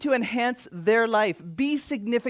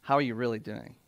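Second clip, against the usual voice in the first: sincere; 8 semitones lower, 6 dB quieter, faster than usual. Shown as a demonstration. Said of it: "not acceptable".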